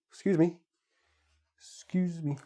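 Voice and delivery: "Excuse" said as "scuse" or "kjuz", initial vowel gone; clipped excuse. Shown as a demonstration. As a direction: swallow the first syllable of "Excuse". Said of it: "Very common way to say excuse".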